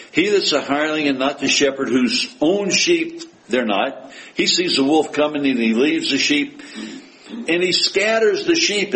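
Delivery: preacher reading a verse aloud; scripture reading. Acted. Reading of the hireling to the congregation, declamatory. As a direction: read it out firmly to the congregation.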